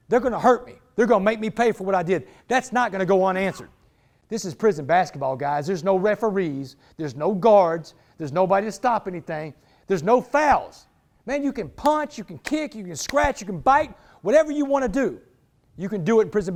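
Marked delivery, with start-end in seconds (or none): 5.7-10.9 each word laid down slowly; slow emphasis. Real, not acted. Telling the crowd how prison ball works, slow and deliberate. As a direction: drag it out, hammer every rule.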